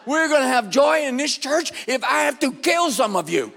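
loud, shouted fake fury with a laugh; mock angry preaching. Shown as a demonstration. Mocking his younger self preaching joy, loud comic fury. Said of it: "a really angry man preach on joy".

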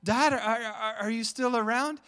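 put-on high, loud worried child's call; scared little boy. Son searching for his hidden dad, anxious child voice. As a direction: call out like a kid who lost his dad. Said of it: "He's like".

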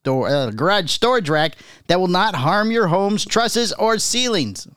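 upbeat commercial read. Acted. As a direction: read it like a radio spot. Reads a product ad.

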